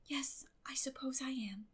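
soft, tranquil agreement. A narrator's reading. Girl agrees calmly with her guardian, soft. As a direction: concede it quietly, unbothered. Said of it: "agreed Anne tranquilly".

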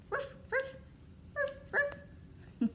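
high, soft puppy barks; dog bark. Pretend. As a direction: yip like a little puppy. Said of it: "what does a dog say".

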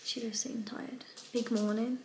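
hushed whisper. Real, not acted. Whisper near sleeping baby.

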